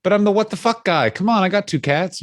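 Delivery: high sarcastic retort; sarcastic mock reply. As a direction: sneer back at the complainer. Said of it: "You cannot find good work in this town".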